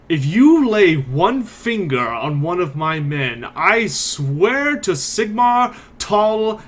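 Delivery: menacing threat. Acted. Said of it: "stomps up to Sigmund and says".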